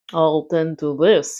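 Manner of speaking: low, slow sly voice; a rat up to mischief, lightly voiced; sly rat chuckle. A narrator's reading. Sly rat chuckling to himself, low and slow. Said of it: "he chuckled".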